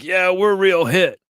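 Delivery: high, slow, squeaky mock of a kid; sing-song teasing little brag; high and slow, poking fun at a boastful kid. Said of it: "Avi's like".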